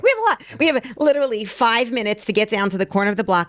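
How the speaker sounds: high, urgent and excited, voice shooting up; excited rush. Retold or imitated. Mother rushing to send food to soldiers, excited and high.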